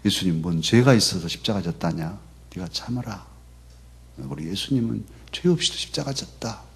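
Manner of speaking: a mother's Jeolla dialect, 죄가 lifted in a rising question. Retold or imitated. Pastor recalling his late mother, lightly voiced in Jeolla dialect. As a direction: quote the mother in homely Jeolla speech. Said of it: "전라도 사투리로".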